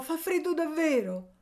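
put-on very high, plaintive child; pleading. A narrator's reading. Cold boy begging to come inside, pleading. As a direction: whine a little to get indoors. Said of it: "egli supplicò".

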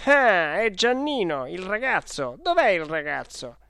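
loud, high outburst, easing down in pitch; beside himself. Acted. Clodoveo realises who pulled the alarm, beside himself. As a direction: cry out frantically for the boy. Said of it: "come fuori di sé".

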